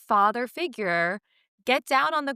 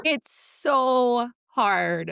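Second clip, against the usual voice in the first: exasperated laughing; 4 semitones higher, much slower than usual. Real, not acted. Laughing exasperation after the bit.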